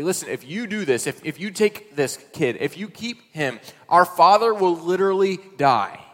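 high, loud desperate plea; pleading brothers. Retold or imitated. Brothers pleading with Joseph for Benjamin, loud and high. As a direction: beg for your father's life.

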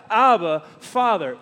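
heartfelt call of Abba, Father; crying out. Shown as a demonstration.

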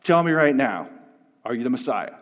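loud, firm order; point-blank demand. Acted. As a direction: demand an answer with force. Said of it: "Point blank".

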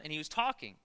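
ordinary delivery

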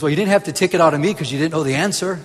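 fast, laughing punchline; sheepish lion, laughing. Retold or imitated. Preacher telling the lion joke to the church, laughing fast punchline. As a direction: deliver the punchline through a laugh.

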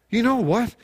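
high, eager exclamation; you know what, gushing; excited burst. Acted. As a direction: blurt it out overexcited. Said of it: "You basically go crazy".

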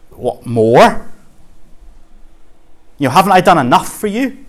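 hammed-up scolding of a greedy orphan; Mister Bumble. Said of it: "the same answer from God that Oliver got from Mister Bumble".

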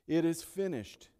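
"It is finished" rung out loud and high; proclaimed. Acted. Pastor proclaiming Christ's victory cry, loud and ringing. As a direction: proclaim it to the back row.

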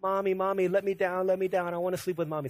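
hint of a toddler begging on repeat; pleading toddler. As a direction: lightly mimic a small child's plea. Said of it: "start shaking her little pack and play".

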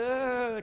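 drawn-out groan of rising tension; loud, held "uh" of mock strain; mock stressed groan. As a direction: act out dread coming up on you. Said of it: "When you feel that".

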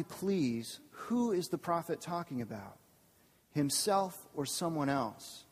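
measured, formal reading of the passage; scripture reading. Acted. Pastor reading scripture to the congregation, measured and formal. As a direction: read the Bible passage out to the congregation. Reads the Bible passage aloud.

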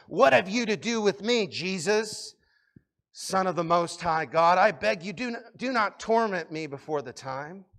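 high, loud pleading demon. Acted. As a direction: cry out like a begging demon. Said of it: "That's my demon voice".

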